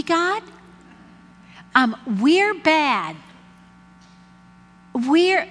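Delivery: indignant protest. Pretend. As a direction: argue back at God in disbelief. Arguing back at God.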